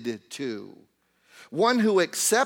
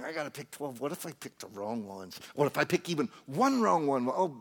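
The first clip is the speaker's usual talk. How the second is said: mock nail-biting worry; 2 semitones lower, faster than usual. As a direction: start under the breath, then work yourself up. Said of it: "biting his nails, thinking".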